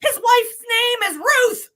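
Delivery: high, loud, laughing disbelief; laughing reveal. Real, not acted. Telling listeners who the ghost was, laughing and loud.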